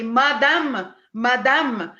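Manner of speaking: imitating a French-accented "Madame". Medium relaying the name she heard, light French accent. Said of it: "like in, in this French accent".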